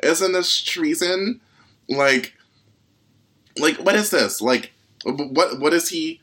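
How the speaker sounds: outraged shouting. Acted. Character outraged, shrill disbelief.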